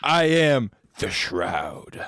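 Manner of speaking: a touch of a grave soldier; deep character voice. Acted. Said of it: "that was a drastic tone change".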